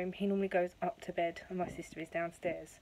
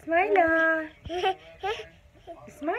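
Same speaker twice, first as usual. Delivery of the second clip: calling out; 9 semitones higher, 9 dB louder, slower than usual. Real, not acted. Calling baby by nickname.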